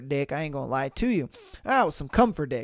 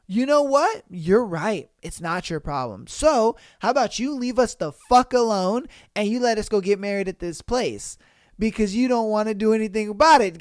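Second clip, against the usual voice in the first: heated sarcastic retort. Retold or imitated.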